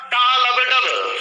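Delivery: टा लब डब stretched out slowly, beat by beat; slow heartbeat rhythm. Shown as a demonstration. Teacher drills students on the S4 sound, slowly beat by beat. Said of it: "इस sound के name है लब डब".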